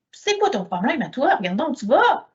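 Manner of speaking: mock aggressive retort; mildly acted aggressive jab. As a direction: snap back like a rude stranger. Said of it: "super agressif".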